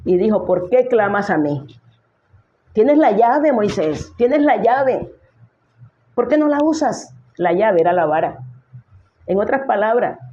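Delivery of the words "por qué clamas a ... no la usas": a raised, rising rebuke, higher on each line; the Lord scolding a frightened Moses. Acted. The Lord scolding Moses, raised scolding voice. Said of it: "al Señor le dio tanta rabia que regañó a Moisés".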